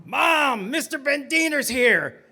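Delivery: high, urgent call through the house; alarmed calling out. Acted. Child warning mother the rabbi is here, alarmed call. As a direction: raise the alarm for Mom.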